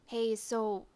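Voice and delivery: softly voiced, hushed approach; low-volume coaxing, half whispered; quiet whisper. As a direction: speak softly, keeping it discreet. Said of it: "I whisper quietly".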